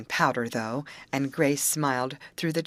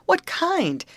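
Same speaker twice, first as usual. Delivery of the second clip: much higher, louder anxious ask; anxious question; 5 dB louder than usual. A narrator's reading. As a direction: jump in with an alarmed question. Amy asking alarmed.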